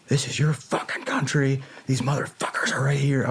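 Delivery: high, impassioned retold harangue; Patton-style rallying speech. Soldier rallying locals in their own country, Patton-style harangue. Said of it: "I was just going straight up Patton speech on 'em".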